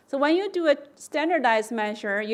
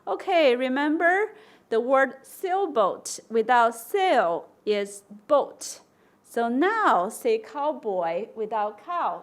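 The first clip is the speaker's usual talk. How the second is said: slow, patient teacher voice; walk a child through it gently; coaxing a child step by step, slowly; patient teacher prompt. Shown as a demonstration. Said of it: "So you give them an example".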